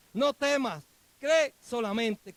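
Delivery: firm, emphatic command; Jesús. Acted. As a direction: drive it home, stretching out the last phrase slowly. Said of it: "lo único que le dijo". (orden firme, enfática y pausada)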